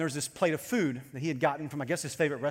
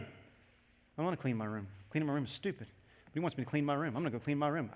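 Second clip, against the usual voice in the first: grumbling under breath; 4 semitones lower, 9 dB quieter than usual. Retold or imitated. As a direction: mutter it like a sulky child forced to clean. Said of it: "my kids will say a lot of things under their breath".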